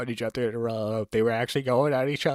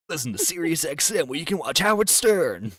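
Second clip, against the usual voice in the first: radio ad voice; 4 semitones higher than usual. Shown as a demonstration. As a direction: sell it like a radio spot. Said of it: "You got the radio voice".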